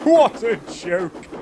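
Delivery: slow high gloat repeated; chortling. A narrator's reading. Gordon repeats his gloat, slow chortle. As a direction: chortle it again, relishing. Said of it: "he chortled".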